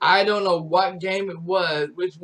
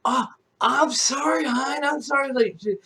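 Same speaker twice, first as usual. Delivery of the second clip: higher, sheepish mock apology in a mom voice; apologetic mom; 7 semitones higher, faster than usual. Mom apologizes to her son, sheepish apology. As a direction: sweetly say sorry to your son. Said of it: "And she's like".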